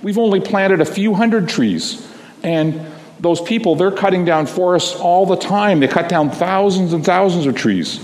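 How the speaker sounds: put-on high, anxious child voice close to tears; a small dragon pleading to save the forest; little girl voice rising toward crying; worried little dragon. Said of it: "then she really starts to cry".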